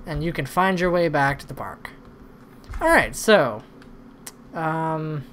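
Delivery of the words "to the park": unvoiced hushed whisper. Real, not acted. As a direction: whisper it under breath. Whispered aside to guest.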